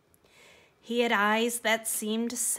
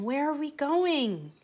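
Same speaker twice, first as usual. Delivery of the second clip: frightened; 6 semitones higher than usual. Acted. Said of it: "The donkey was frightened".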